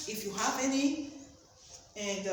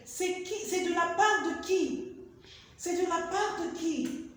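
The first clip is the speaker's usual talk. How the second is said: acted caller; 6 semitones higher than usual. Shown as a demonstration. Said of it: "Fidelcy say again".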